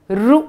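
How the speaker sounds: रू, the alternative sound of री; री pronounced as रू. Shown as a demonstration. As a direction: say रू with an "oo" vowel after the r. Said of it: "इसको रू भी बोला जाता है". (री का "रू" वाला उच्चारण)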